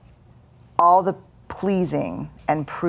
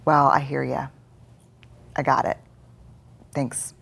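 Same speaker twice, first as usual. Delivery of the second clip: calm reassurance; 2 semitones lower than usual. Shown as a demonstration. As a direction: soothe the voice, then let it go. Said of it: "And you say".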